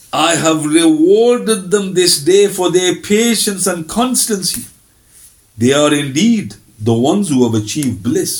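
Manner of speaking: verse recitation. Acted. Reads out translated verse.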